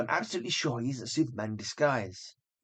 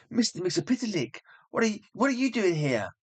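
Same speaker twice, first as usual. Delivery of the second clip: higher, slowed gasp of disbelief; startled surprise; 7 semitones higher than usual. Acted. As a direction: stammer out the name in shock. Lois startled by imp.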